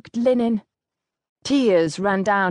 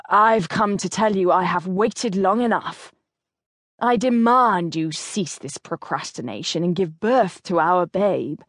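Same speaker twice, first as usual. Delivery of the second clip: stern husband; 2 semitones lower than usual. Acted. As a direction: voice the determined husband, unhurried. Narrator voices the duke.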